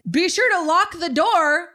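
high, mocking parting remark; smart-ass. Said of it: "kind of like a smart ass".

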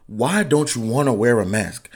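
ordinary talk, nothing marked

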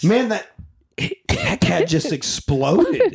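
slow, wide-eyed retelling; mock awed storyteller. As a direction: play up the wonder of it. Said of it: "she's like".

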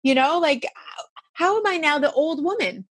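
high, pleading disbelief; lightly acted crying wail; retold distress. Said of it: "I'm like".

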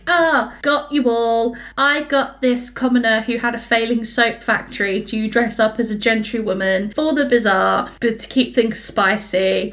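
the Duke gloating over his prank at the ball; smug prankster. Retold or imitated. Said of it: "he's like".

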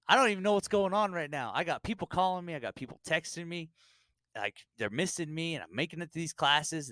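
high-pitched, overwhelmed complaint; comic bewilderment. Acted. Recruit hounded by calls and texts, mock overwhelmed.

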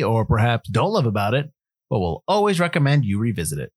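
smooth, even podcast host read; a calm, cool and collected corporate pitch; calm corporate intro. Acted. Host reads the show intro to listeners, calm corporate voice. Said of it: "It was a very calm, cool, and collected".

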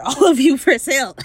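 breaking into a high laugh. Real, not acted. Retelling the raggedy man's question, dissolving into laughter. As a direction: lose it mid-line.

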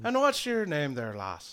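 lightly voiced Irish druid; gently lilting Irish question; Irish accent. Druid shaking a lass's hand, Irish accent. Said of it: "you sound like an Irishman".

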